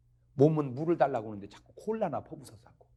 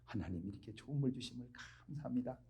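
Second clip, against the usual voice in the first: soft, hushed grace over water; prayer of thanks; 13 dB quieter than usual. Acted. Preacher praying over drinking water, soft and thankful. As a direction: murmur a modest prayer of thanks. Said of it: "이 물이 기도 소리를 들어".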